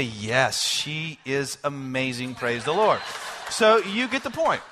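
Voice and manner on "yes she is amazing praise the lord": lower, slow, dutiful piety; mock pious reply. Pastor hiding hurt from congregant, mock-pious. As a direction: nod along and say it with forced holiness. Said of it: "I'll just look at you and I'll nod and I'll say".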